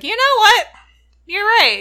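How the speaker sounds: loud, high burst of conviction; mock sudden resolve. Retelling Maddie won over by the chanting, mock-excited resolve. Retold sudden change of heart.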